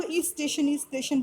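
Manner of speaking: "इस स्टेशन" with an extra i before st; station said as "इस स्टेशन", repeated; imitated mispronunciation. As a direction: imitate a learner saying "इस स्टेशन". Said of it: "वो स्टेशन नहीं".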